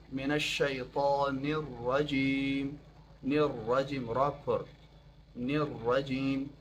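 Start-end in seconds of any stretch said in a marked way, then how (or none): 0.1-2.8 الشیطان said slowly with a full heavy ط. Shown as a demonstration. Teacher shows students the full heavy ط in الشیطان slowly. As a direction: fill the ط in الشیطان, slow and deliberate.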